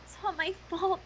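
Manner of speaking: mock tearful sobbing, breaking on the words; hammed-up guilt-stricken crying; sobbing Twilight. Twilight blaming herself over Spike, mock sobbing. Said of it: "She dissolved in helpless, choking sobs".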